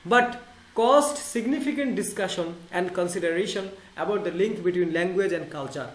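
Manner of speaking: reads each English word slowly and clearly; slow English reading. Shown as a demonstration. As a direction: read the quote out slowly, word by word. Reading English text aloud. (ধীরে ইংরেজি পড়া)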